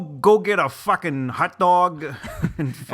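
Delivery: put-on brash Chicago accent; a hint of a Chicago guy. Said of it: "my Chicago accent".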